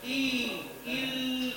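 slow soft إي before إل; wrong added ya. Shown as a demonstration. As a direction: slip a ya sound after the hamza. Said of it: "الإتيان بياء بعد الهمزة".

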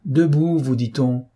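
high, sharper repeat of the command; insist, out of patience; indignant order. Acted. The count repeats his outraged order to Lupin. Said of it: "d'un air indigné".

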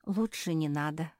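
ordinary delivery, nothing marked

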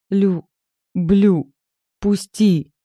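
loud strained croak about to be sick; croaked out nauseous. A narrator's reading. Galya croaks at Nazar, about to throw up, loud and strained. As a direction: force the words out before you retch. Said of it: "прокрякала я".

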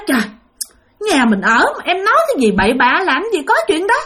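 a husband laughing off his wife's fears; dismissive husband. Retold or imitated. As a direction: brush off the ghost story, amused. Husband dismisses wife's ghost talk.

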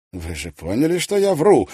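sharp loud outcry, pitch jumping up; exclaiming. A narrator's reading. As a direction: blurt out the confession. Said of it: "воскликнул Тиджинс".

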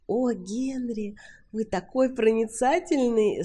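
slow, sing-song flattery; flirty Sally. A narrator's reading. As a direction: coo it at him teasingly.

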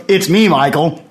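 lightly imitated English accent. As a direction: put on a touch of an English accent. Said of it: "in his English accent".

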